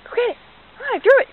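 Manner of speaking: high, loud exasperated push; loud urging call. Real, not acted. Owner urging dog after thrown rock, loud high call.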